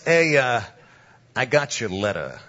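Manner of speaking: lightly voiced East Coast wiseguy; a hint of mob heavy; mafia tough guy. Mobster brings up the pastor's letter, light wiseguy voice. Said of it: "he says it just like this".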